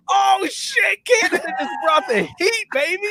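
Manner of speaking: high, loud excited outburst; hyped exclamation. Retold or imitated. Fan shouting over the all-black uniforms, hyped. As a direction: blurt it out, thrilled by the uniforms. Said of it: "I was like".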